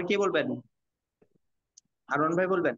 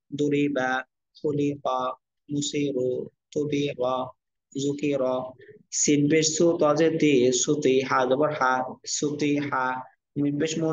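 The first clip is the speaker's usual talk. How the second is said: measured syllable-by-syllable Arabic spelling chant; spelling drill recitation; 2 semitones lower than usual. Shown as a demonstration. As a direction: spell each letter and vowel, then join them evenly. Teacher models Arabic spelling drill.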